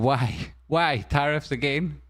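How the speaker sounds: rising squawk like a seagull; hammed-up panicked cry of why; mock investor panic. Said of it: "they started screaming".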